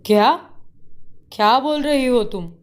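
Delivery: high startled disbelief; shocked. Acted. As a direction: react in sudden shock. Husband shocked at her reply. (चौंककर हैरानी से पूछना)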